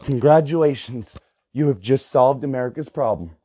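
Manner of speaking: low, measured solemn praise; mock-solemn congratulation. Narrator replying to a homeschooled kid, mock-solemn. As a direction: drop low and congratulate gravely.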